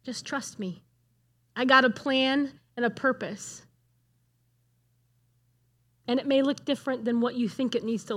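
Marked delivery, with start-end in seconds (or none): 0.0-3.7 loving. Pretend. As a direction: say it tenderly, like a father comforting. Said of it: "he just lovingly said".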